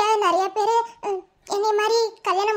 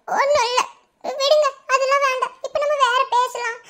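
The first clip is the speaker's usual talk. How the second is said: crying but laughing it off, a bit louder; tearful brush-off; 3 semitones higher, 3 dB louder than usual. Acted. Wife hiding her secret from her soldier husband, tearfully laughing it off. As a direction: push the tears away with a forced brightness. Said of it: "இப்ப எதுக்கு அழுதுக்கு இருக்க?".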